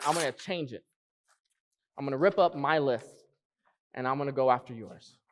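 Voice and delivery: hushed, honest prayer of surrender; voiced prayer. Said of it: "and says".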